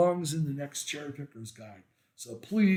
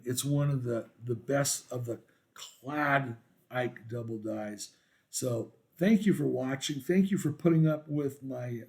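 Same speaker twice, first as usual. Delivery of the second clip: stuffy nasal voice after illness; nasal post-viral voice. Real, not acted. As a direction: talk through a blocked nose, still recovering. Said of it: "nasally voice and, uh, post-viral".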